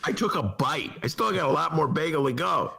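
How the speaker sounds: chewing while talking. Real, not acted. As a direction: talk through a mouthful of bagel. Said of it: "I'm just chewing".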